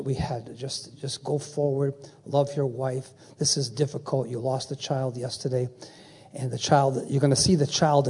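quiet pastoral consolation; gentle consoling. Retold or imitated. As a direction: gently comfort a bereaved father. Consoling a pastor who lost his child.

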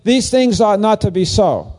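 high preachy sing-song, stress on "These"; lofty churchy drone mocking the verse; mock sanctimonious reading. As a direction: send up the pompous verse reader, hitting "These". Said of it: "That was very edifying. Not".

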